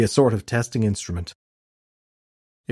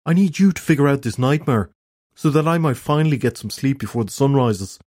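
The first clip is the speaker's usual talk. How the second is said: exasperated rant; 5 semitones higher than usual. Acted. Preston rants at Shelley.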